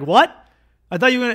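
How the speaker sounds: loud, high cry of disbelief; shocked outcry. Acted. Butt chuggers to the Mongols who just backed out, shocked loud outcry. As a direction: yelp it out, betrayed and stunned. Ally backs out, gang protests.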